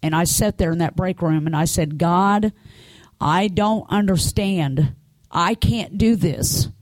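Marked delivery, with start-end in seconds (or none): 2.0-6.7 higher, slow plea to God; retold plea at the end of your strength; retold brokenness. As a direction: re-enact a broken prayer, drawing the words out. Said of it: "I was so broken".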